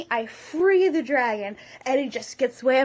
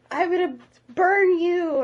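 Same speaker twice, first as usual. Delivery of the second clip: hammed-up dragon threat, higher and louder; 6 semitones higher, 4 dB louder than usual. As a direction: menace the boy as a dragon. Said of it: "it's like".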